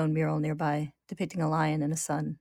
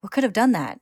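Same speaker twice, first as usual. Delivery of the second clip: higher, louder alarmed question; freaked-out question; 5 semitones higher, 6 dB louder than usual. A narrator's reading. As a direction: ask it in mild alarm. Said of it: "he freaks out a moment later".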